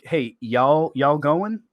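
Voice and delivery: light Southern drawl on y'all; Southern accent. Acted. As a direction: greet friends with a relaxed Southern accent. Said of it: "when I'm around my Southern friends".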